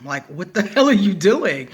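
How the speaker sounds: roommate's question broken by laughter; laughing quote. Retold or imitated. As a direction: quote her while laughing. Retelling roommate's outburst, laughing.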